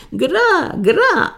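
very high-pitched yelped answer; pained wail. A narrator's reading. Beaten wife answering her mocking husband, wailing. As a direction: wail it far above normal pitch.

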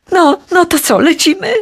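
high, impatient pushing question. A narrator's reading. Ikar presses his father to fly, impatient and high. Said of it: "dopytywał się niecierpliwie".

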